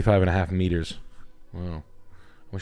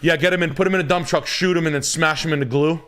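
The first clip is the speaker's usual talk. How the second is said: gleeful rant; 7 semitones higher than usual. Real, not acted. Joking rant about horses.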